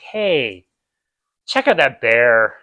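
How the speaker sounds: slow, relaxed and unbothered; mock chilled. Guest spotting a bear, mock relaxed calm. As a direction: play it laid-back, no alarm at all. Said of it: "really muted, relaxed, chilled response".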